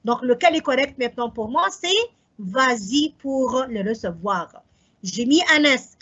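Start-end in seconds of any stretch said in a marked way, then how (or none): 2.4-4.6 "vas-y" said slowly with a clear z linking s to y; slow, stressed liaison. Shown as a demonstration. Teacher reading the correct answer to students, slow and careful. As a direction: draw out "vas-y" so the liaison z sounds. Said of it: "je dois mettre le S".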